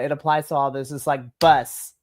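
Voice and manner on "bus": meme of a singer. Retold or imitated. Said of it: "meme of a singer".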